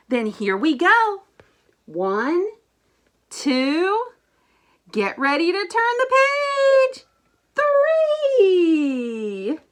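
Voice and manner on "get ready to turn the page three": high, loud building countdown; excited countdown. Acted. Grover counting down before the monster reveal, loud excited. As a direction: build up the suspense and shout it.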